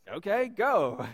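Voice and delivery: loud, short permission; Jesus's brisk dismissal. Acted. Jesus letting the demons go, commanding. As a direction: send them off with a loud command. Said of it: "And Jesus says".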